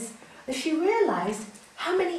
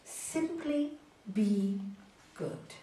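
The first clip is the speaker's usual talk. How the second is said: calm master; 3 semitones lower, 4 dB quieter, much slower than usual. Acted. Wise master's calm answer.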